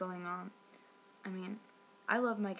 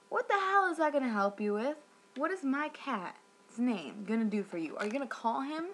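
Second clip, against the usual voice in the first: indignant, higher and louder at the start; exasperated; 4 semitones higher, 4 dB louder than usual. Retold or imitated. Cat owner objects to being asked her cat's name, exasperated. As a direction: challenge a pointless question in disbelief. Retold exasperation at the rep's question.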